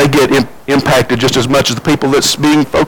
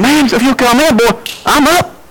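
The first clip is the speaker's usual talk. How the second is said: mock hollering; 8 semitones higher than usual. Preacher retelling Andy hollering at Barney, mock holler. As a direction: imitate someone yelling, voice jumping up high. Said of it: "he done hollered and yelled at him".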